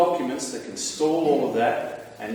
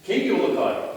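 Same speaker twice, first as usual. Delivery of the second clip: whispered, rising "King Ulukai?"; surprised question; 7 semitones higher, 4 dB louder than usual. Retold or imitated. Speaker meeting the king, whispered surprised question. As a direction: breathe it out in disbelief. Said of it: "And I went".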